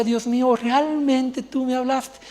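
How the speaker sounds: slow, choked-up retelling of the prayer; teary awe. Retold or imitated. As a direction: let the wonder break the voice a little. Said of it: "me la pasé llorando".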